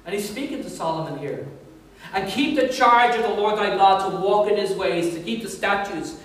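measured, solemn Bible reading; solemn steady scripture read. Acted. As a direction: read it out like the King James. Reads scripture aloud.

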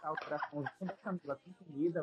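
laughing. Real, not acted. Laughing while talking.

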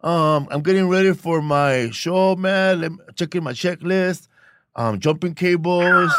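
put-on laid-back cholo accent, slow and drawn out; a light Chicano comedian voice; Mexican cholo voice. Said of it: "in a Mexican cholo voice".

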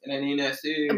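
wheedling man hitting on a woman; persistent street flirt. Acted. Man mimicking the guy at the gas station, wheedling. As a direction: lightly play the pushy admirer. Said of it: "exactly how he was acting".

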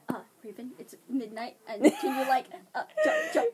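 mock sleepy request. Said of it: "Be like".

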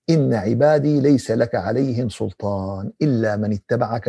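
measured, solemn verse recital; Quran recitation. Acted. Preacher quoting Quran verses to the congregation, measured recitation. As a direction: recite scripture evenly, drawing out phrase endings.

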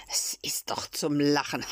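whispered, forced bravado; nervous whisper. Acted. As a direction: hush it like someone scared of being heard. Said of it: "sprach jetzt der mutige Schreiner".

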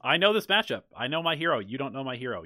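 loud, high, indignant outburst; high, loud mock tirade at an arguing teammate; mock rant. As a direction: shout it like you're fed up with your teammate. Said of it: "I'm like".

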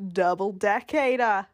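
put-on Australian lilt; Australian accent. Friend practising an accent on a silly phrase, Australian accent. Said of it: "working on my Australian accent".

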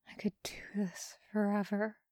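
breathy whisper of devotion; hushed lover's whisper. Acted. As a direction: whisper it like a secret, fast. Lover murmuring between kisses.

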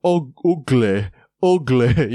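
playfully hammed-up gremlin noises; silly character voice. Host demonstrating to his cohost the voices he does at the TV, goblin squeal. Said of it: "I'm watching a show going".

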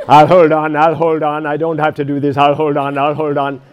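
mock the stubborn holdout, hammed up; stubborn head brain voice. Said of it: "That's your head brain talking".

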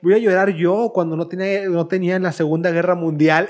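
lightly voiced scornful older woman; mocking old lady. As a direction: sneer like a bitter old boss. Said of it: "la señora". (burla ligera de señora amargada)

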